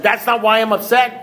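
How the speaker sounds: high-pitched, incredulous echo; acted-out affronted disbelief; indignant disbelief. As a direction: throw it back as an outraged question. Indignant echo of sponsor's verdict.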